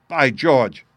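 loud exclamation from an astonished inspector; excited cry. A narrator's reading. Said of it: "cried the inspector".

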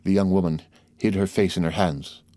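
ordinary delivery, nothing marked

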